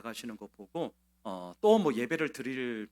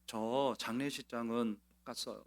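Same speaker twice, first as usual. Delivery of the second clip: calm and composed; 2 semitones lower, 4 dB quieter than usual. Retold or imitated. Grieving deaconess tells her pastor calmly, understated. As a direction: keep it level despite grief. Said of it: "너무나 담담하게 말씀하셨습니다".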